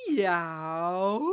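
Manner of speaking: long, low model meow; demo meow. Shown as a demonstration. Teacher showing Lenny just how to meow. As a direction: draw the meow out gently. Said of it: "Just like this".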